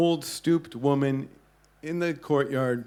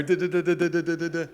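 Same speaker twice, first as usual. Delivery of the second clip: rapid fire phone chatter; 4 semitones higher, faster than usual. Retold or imitated. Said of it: "rapid fire".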